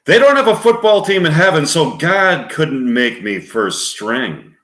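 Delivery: lightly voiced Warren Beatty. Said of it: "Warren Beatty".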